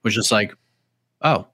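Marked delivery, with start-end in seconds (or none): 1.2-1.5 mock straight-faced compliment; deadpan. Imitating fighter with a snapped arm, deadpan. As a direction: deliver it as if unbothered. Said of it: "straight faced the whole thing".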